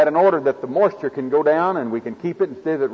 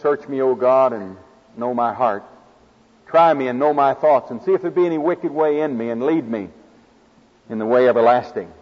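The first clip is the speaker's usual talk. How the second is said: prayerful reading; 3 semitones lower than usual. Shown as a demonstration. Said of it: "you pray Psalm a hundred and thirty-nine".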